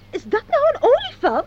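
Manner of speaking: crying-out dismay; appalled outcry. Acted. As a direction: wail the question in shock. Appalled at the elephant card. (verbijsterd uitgeroepen)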